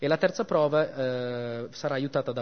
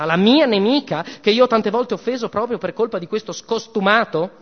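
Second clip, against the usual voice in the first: furious goddess mother; 3 semitones higher, 3 dB louder than usual. Acted. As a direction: rant like a jealous mother goddess. Venus rants at her son.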